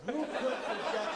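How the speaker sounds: high, loud rhetorical question; hammed-up, projected presenter delivery; emphatic restart. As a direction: relaunch the line big and showy. Restarts the line with more force.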